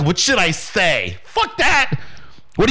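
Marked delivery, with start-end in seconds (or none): 0.0-1.2 lower, slow, hesitant mock question; slow, lower imitation of a timid beginner; mock timid asker. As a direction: play the unsure newbie, drawn out and lower. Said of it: "Everybody else is like".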